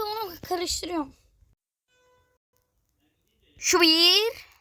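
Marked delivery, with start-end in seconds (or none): 3.6-4.5 whispered count under the breath. Real, not acted. Gamer counting tries to himself, whispering. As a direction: hush and count the first try.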